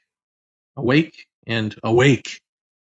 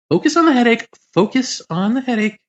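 urgent self-command; 10 semitones higher, 3 dB louder than usual. Retold or imitated. Urging himself out of panic.

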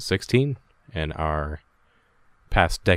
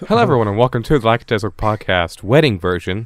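mock host greeting, slightly raised; podcast host intro; 4 dB louder than usual. Host welcoming a pretend wedding crowd, lively announcer greeting. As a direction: pretend to open a live show.

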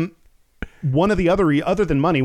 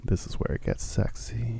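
mock seductive purr; sexy voice; 3 semitones lower, 8 dB quieter than usual. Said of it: "Is this my sexy voice?".

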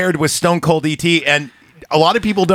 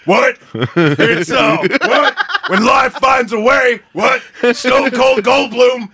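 a first stab at a Jeff Goldblum voice, a little higher; trying out Goldblum; 4 semitones higher, slower than usual. Acted. Friends ask for Goldblum, so he tries a hammed-up Goldblum. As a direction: warm up a mock Goldblum with little laughs. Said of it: "Do that, do that in the Goldblum voice".

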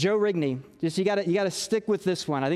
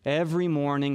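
droopy self-pitying Eeyore read; a hint of mopey Eeyore; Eeyore impersonation; 3 semitones lower than usual. Shown as a demonstration. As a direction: moan it like a gloomy donkey. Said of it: "That's my best Eeyore impersonation right there".

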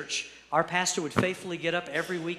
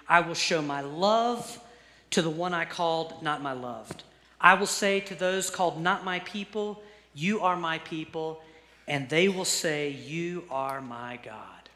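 scripture reading. Acted. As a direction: read the promise deliberately, easing into a hush. Reads scripture aloud to congregation.

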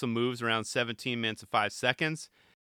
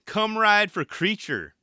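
slow, higher mock pitchman line; sales pitch; 8 semitones higher, 5 dB louder, slower than usual. Mimicking Cody pitching Sam to ride for Creature, hammed-up. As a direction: sell it like a cheesy recruiter. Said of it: "sales pitch".

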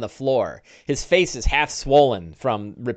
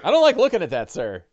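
squeamish Bing; 4 semitones higher, 3 dB louder, faster than usual. Acted. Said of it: "Bing is like".

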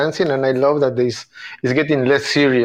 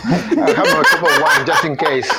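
giggling confession; laughing. Real, not acted. Laughing admission.

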